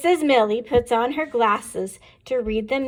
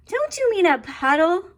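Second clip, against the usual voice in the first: giggling question; 7 semitones higher than usual. Acted. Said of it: "we ask, giggling".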